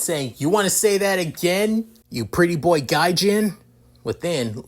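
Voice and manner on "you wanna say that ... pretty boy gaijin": raised, higher-pitched challenge; irritated, spoiling for a fight; annoyed. A narrator's reading. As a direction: throw it back as a dare, pitched up. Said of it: "With Issei getting annoyed".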